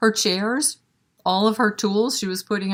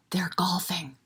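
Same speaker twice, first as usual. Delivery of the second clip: softer, breathy aside; whispered aside; 6 dB quieter than usual. Real, not acted. Librarian whispering the joke to kids.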